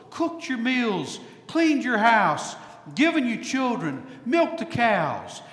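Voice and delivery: tired wife counting off the years; exasperated Golda. Retold or imitated. Preacher voicing Golda as she answers Tevye's question. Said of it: "Golda sighs as she looks at him and says".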